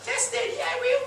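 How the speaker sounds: put-on squeaky high child's reply; little child. Son answering his father, high childlike reply. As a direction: answer like an obedient small child. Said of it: "That's animation".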